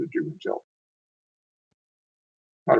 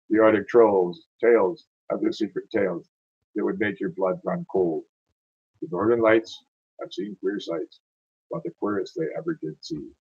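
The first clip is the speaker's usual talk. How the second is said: slow, measured ballad refrain; poem recitation; slower than usual. Acted. Closing a Yukon ballad for listeners, poem recitation. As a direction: open strongly and let the verse wind down slowly.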